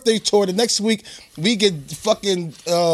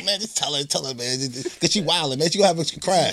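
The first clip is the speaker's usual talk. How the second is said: soft, low mock plea; 8 semitones lower, 6 dB quieter than usual. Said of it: "He like".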